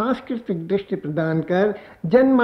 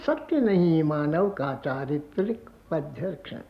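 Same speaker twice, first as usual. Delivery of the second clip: poem recitation. Acted. Poet presenting new songs to listeners, lilting poem recitation. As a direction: recite verse, repeating lines with swelling pitch.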